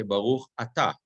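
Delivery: "Ata" stressed on its final syllable, a-TA; stress on last syllable. Shown as a demonstration. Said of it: "usually we're gonna say".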